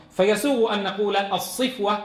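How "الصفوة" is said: الصفوة said as as-safwa with a short a; الصفوة with a fatha on the sad. Shown as a demonstration. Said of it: "يجوز فيها الحركات الثلاث".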